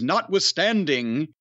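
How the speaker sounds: slow, measured NOTWITHSTANDING; stentorian. Retold or imitated. Mimicking the boss's favourite word, mildly stentorian. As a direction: draw out a favourite long word grandly. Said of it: "that type of stentorian tone".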